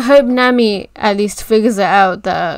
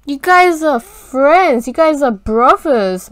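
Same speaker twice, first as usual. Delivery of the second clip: pleading; 4 semitones higher, 3 dB louder than usual. Real, not acted. Pleading with fighting friends.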